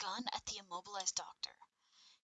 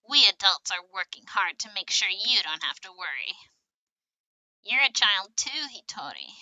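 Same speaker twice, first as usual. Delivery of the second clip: loud, projected character acting; children in game dialogue; 13 dB louder than usual. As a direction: play the scene big and loud, line by line. Voices children in game scene.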